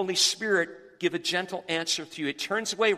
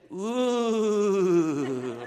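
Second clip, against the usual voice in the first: long drawn-out "ooh" sliding gradually down; fleshly urge noise. Retold or imitated. Pastor voicing what he wanted to say to yelling driver, drawn-out groan. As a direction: hold back a retort in one long mock groan. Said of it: "fleshly voice where I wanted to say".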